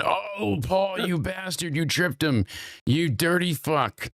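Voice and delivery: high-pitched, hammed-up indignation; mock outrage. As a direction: rant at the screen in a high, dragged-out voice. Mock outrage at game clip.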